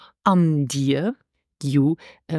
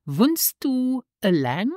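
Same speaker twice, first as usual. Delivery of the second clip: slow model phrase; 5 semitones higher, slower than usual. Shown as a demonstration. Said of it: "This is".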